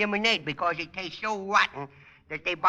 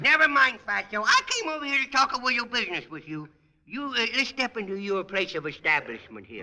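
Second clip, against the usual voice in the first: put-on bratty kid voice. Junior character voice throughout.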